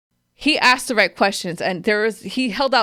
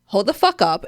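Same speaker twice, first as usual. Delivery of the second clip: firm, a bit louder, getting mad; half-performed angry stop, louder; retold angry outburst; 4 dB louder than usual. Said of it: "this is when I started getting mad".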